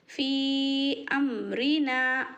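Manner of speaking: फी अमरीना with the long vowel held for five counts; slow Quranic elongation; stretched madd. Shown as a demonstration. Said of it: "इस मद को पाँच अलिफ के बराबर खींचेंगे".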